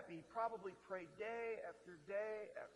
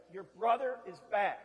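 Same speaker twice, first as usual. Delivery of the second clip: a louder, announcing call; servant announcing; 10 dB louder than usual. Retold or imitated. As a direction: proclaim it to the older son. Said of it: "servant says".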